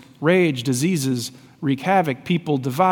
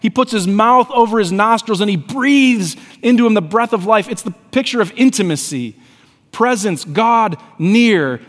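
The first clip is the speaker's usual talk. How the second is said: raised, forceful preacher's storytelling; impassioned preaching; 6 semitones higher, 5 dB louder than usual. Acted. Preacher tells how God breathed life into man, impassioned preaching. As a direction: preach it with building wonder.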